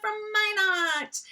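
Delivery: put-on high, slow North Dakota accent; delighted North Dakota drawl of the town. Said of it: "super North Dakota accent".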